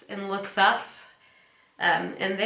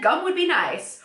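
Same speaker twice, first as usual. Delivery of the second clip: higher mock Chandler; imitating Chandler; 8 semitones higher, 3 dB louder than usual. Host voicing Chandler's plainer option, mock Chandler. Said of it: "he's like, could have said".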